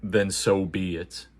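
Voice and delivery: slow, lightly voiced Shredder; mild mock menace; villain line. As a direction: drag each word like a grim villain. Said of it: "he basically, like".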